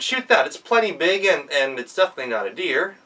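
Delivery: high, loud, insistent urging; pushy loud demand. Acted. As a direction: press him hard to fire. Impatient devil pushes.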